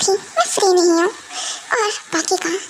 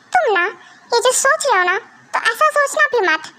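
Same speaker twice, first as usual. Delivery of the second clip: climbing higher to a sharp warning; don't you even think it, rising; 4 semitones higher than usual. Acted. Wife warns husband, voice climbing. (चढ़ती आवाज़ में चेतावनी)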